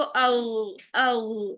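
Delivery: او voiced as a gargled ghain from the throat; held throaty ghain demo. Shown as a demonstration. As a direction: gargle the sound out, voice running on. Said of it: "تو کیسے ہم کریں گے اس کو؟".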